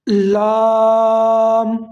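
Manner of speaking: لام held very long, the madd stretched; long madd on lam. Shown as a demonstration. Teacher showing students the madd, a long drawn-out لام. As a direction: draw out لام for five alifs. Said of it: "اس کو زیادہ لمبا کرنا ہے".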